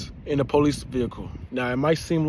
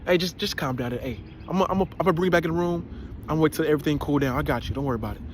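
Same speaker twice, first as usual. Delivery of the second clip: 1 calming officer; 3 dB quieter, much faster than usual. Retold or imitated. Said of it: "They was like".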